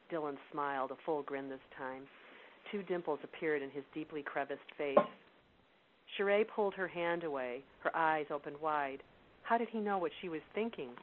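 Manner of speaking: steady, measured storytelling read; story narration. A narrator's reading. Reads novel excerpt aloud.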